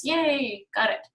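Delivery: cheering cell. Pretend. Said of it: "and it goes".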